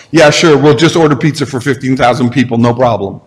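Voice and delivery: mildly sarcastic disciple brushing off Jesus. Retold or imitated. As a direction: play it as a weary sarcastic disciple. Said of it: "it's actually a very sarcastic tone".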